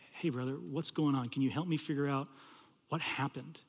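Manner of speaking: soft, careful questioning; gentle approach. Retold or imitated. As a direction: coax an upset friend quietly. Gently approaching the upset student.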